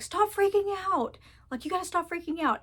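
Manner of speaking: mock exasperated stop it; mock annoyed. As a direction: play an irritated friend snapping at a panicker. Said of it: "will just get pissed and they're like".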